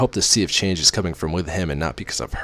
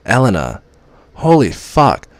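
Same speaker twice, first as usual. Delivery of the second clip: shocked curse; 5 semitones higher, 8 dB louder, slower than usual. Acted. Sudden realization about Elena.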